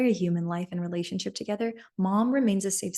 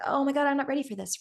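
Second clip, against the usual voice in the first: higher, fast mock alarm; mock panicked listener; 6 semitones higher, faster than usual. Imitating the person called, in fast mock alarm. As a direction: play the overwhelmed friend, quick and high. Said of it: "they're gonna be like".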